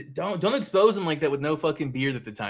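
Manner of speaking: loud, high mock indignation; mock outrage. Real, not acted. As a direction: protest in playful outrage. Mock outrage at old photo.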